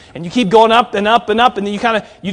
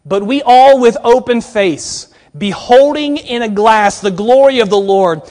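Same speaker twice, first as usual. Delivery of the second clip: slow, measured reading of the verse; scripture reading; 3 dB louder than usual. Acted. Preacher reading the verse to the students, slow and measured. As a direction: let each phrase of scripture land slowly.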